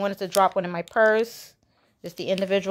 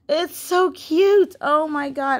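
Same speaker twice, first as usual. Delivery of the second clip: much higher, very slow, stretched out; cooing gush; 7 semitones higher, 4 dB louder, slower than usual. Real, not acted. Vlogger adoring elephant planters to viewers, slow high coo. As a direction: melt over how cute it is.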